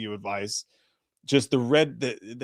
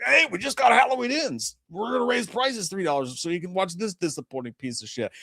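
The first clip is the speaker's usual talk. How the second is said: high, fake corporate cheer; mock Netflix voice; 6 semitones higher than usual. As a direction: pitch it like a smarmy company. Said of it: "They're like".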